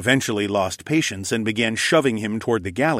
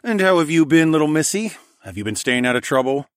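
put-on higher, lilting talk to a toddler; playful child-directed talk; 6 semitones higher, 4 dB louder than usual. A narrator's reading. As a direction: coo the question to a little one. Alex talking to a toddler.

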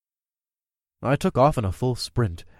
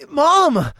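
shout; 14 semitones higher, 7 dB louder than usual. A narrator's reading. Boy cries out.

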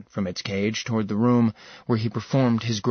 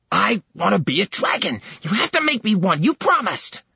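higher, rising petulant whine; spoiled prince whining at his uncle for a promise; 9 semitones higher than usual. Acted. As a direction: beg like a spoiled child. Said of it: "Stop whining".

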